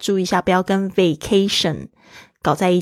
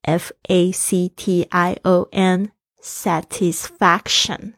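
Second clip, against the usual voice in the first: slow spelling; slower than usual. Shown as a demonstration. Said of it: "S A T I S F A".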